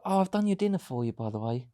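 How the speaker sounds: soft, gentle and polite, trailing off quietly; a mock-tender dinner announcement; kindly offered. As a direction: offer the dinner sweetly, as a kind partner should. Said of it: "you don't go".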